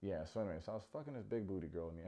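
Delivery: fast muttered lightly voiced bro; fast mock bro. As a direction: rattle it off like a crude bro. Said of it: "He goes".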